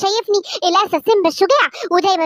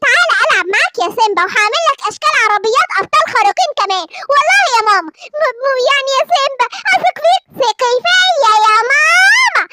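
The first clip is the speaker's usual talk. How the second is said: put-on insistent child voice, a touch higher; pleading little boy; 3 semitones higher than usual. Simba insisting to his mother that Batman is good, pleading child voice. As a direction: swear to mum he's right.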